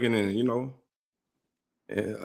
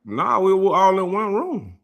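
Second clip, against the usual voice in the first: laughing; 6 semitones higher, much slower than usual. Real, not acted. Laughing about the happy night.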